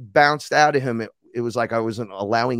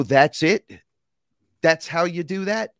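higher, louder incredulous question; amazed question; 6 semitones higher, 5 dB louder than usual. Acted. Student to teachers, amazed it was that simple, incredulous. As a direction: act out a newcomer's disbelief.

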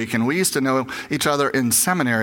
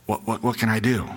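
low, hushed, almost whispering; lowered voice; 6 semitones lower, 4 dB quieter than usual. Retold or imitated. A grieving mother confides in the chaplain, hushed and low. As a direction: drop the voice to a near whisper. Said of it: "she kinda lowers her voice".

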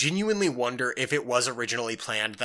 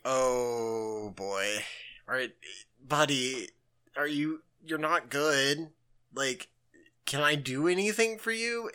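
gentle concern; 4 dB quieter than usual. Retold or imitated. Gentle concern for a depressed friend.

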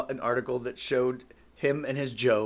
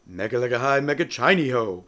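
genie voice; 5 dB louder than usual. Shown as a demonstration. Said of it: "I have to do my genie voice".

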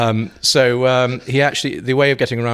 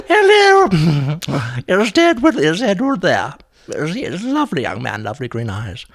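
put-on very high, loud tipsy old lady voice; Jenny Fulborough voice; 8 semitones higher, 7 dB louder than usual. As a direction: trill like a dotty dame after a few sherries. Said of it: "Jenny Fulborough started phoning".

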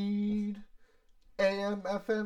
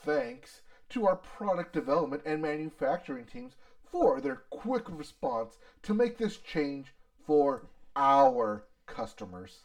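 Ford CEO voice. Retold or imitated. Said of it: "Is this your Ford C E O voice?".

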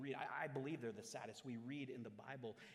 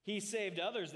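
loud, raised mocking voice; 8 semitones higher, 9 dB louder than usual. A narrator's reading. Priests and elders mock the man on the cross, loud jeer. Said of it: "and the elders mocked him".

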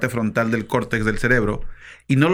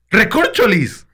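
mild euphemism; 7 semitones higher, slower than usual. Shown as a demonstration. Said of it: "Por ejemplo".

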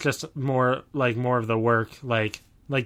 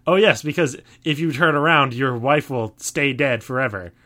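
mock solemn myth voice; 2 semitones higher, 4 dB louder than usual. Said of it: "It's not being like".

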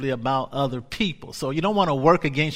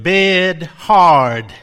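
louder, blunt grumble of a fed-up monk; grumpy loud complaint; 2 semitones higher, 10 dB louder than usual. Retold or imitated. Monk answering his superiors with a loud grumpy complaint. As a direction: bark two words like a sulky complainer.

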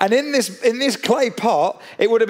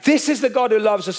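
rising proclamation; 4 semitones higher than usual. Real, not acted. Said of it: "preaching climax".

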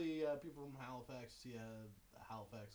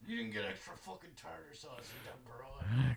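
gruff dock worker hollering; 5 dB louder than usual. Acted. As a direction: bark it like a dockhand. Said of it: "Talk like a dock worker at seven".

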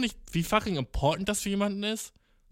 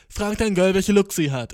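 emphatic; 3 semitones higher, 7 dB louder than usual. Real, not acted. Repeating the episode title.

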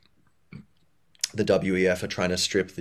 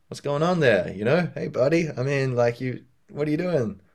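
friendly, higher-pitched check-in; kindly criticism; 5 semitones higher than usual. Acted. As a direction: ask a buddy kindly, without judging. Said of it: "they can register the kindness on some level".

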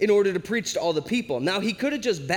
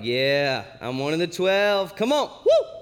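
psyched, voice climbing as it goes; hyped new team member celebrating; pumped up; 3 dB louder than usual. Acted. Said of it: "they're pumped at this point".

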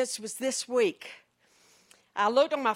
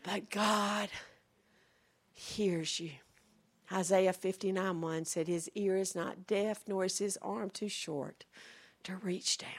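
soft, lower, hushed preaching; quiet assurance; 3 semitones lower, 10 dB quieter than usual. Real, not acted. Preacher assuring the congregation that God hears, hushed. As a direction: bring it right down and reassure them softly.

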